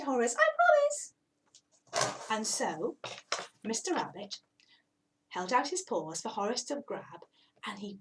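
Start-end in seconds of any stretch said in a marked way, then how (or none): 0.4-2.3 very high and very slow; solemn little cat. Acted. Cat promises. 7.7-8.0 hushed first pull; whispered. A narrator's reading. Tugging build-up.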